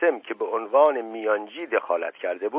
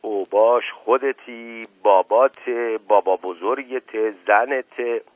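louder, slow, hurling insults back; shouting insults; 4 dB louder, slower than usual. Acted. Shoeshiner yells insults at the Sardar, a mild shout. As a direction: throw each insult back at him. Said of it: "فریاد زد".

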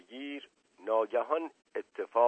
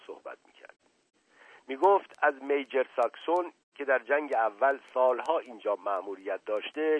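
strange voice; 4 semitones higher, 5 dB louder than usual. Acted. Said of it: "با صدای غریبی گفت".

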